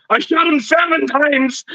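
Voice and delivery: high, slow, overdone action-hero bark; Arnold Schwarzenegger impression. Joking variant for friends, hammed-up bad Arnold. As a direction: ham up a clumsy Terminator-style line again. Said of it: "Or if it's Halloween two".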